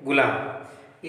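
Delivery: गुलाम stretched out very slowly; a teacher leading the class in a slow, drawn-out गुलाम; slow drawn-out answer. Shown as a demonstration. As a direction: draw out गुलाम syllable by syllable for the class to repeat. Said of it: "और क्या बोलेंगे?".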